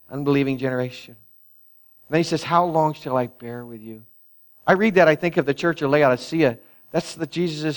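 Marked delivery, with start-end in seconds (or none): 0.1-1.1 mildly burdened, subdued; a touch of weary disappointment. Acted. Preacher voicing a disappointed Savior, mildly burdened. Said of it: "he says it with a burden". 2.4-4.0 subdued, mildly weary reproach without harshness; a touch of burdened disappointment. Acted. Preacher voicing Jesus asking the faithless, mildly burdened. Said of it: "he says it with a burden".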